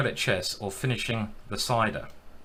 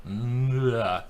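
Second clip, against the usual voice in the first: odd groan. Real, not acted. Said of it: "what was that sound I made".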